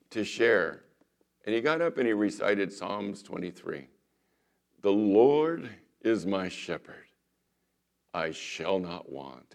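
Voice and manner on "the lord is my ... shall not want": slow, theatrical stage-actor reading of the psalm; dramatic recitation. Retold or imitated. Famous actor reciting the psalm to the community, slow and theatrical. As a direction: declaim it like a Shakespearean actor showing off. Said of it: "he really got into it dramatically".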